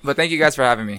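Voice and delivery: hoarse, lost voice. Real, not acted. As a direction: talk through a worn-out voice. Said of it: "I just lost my voice".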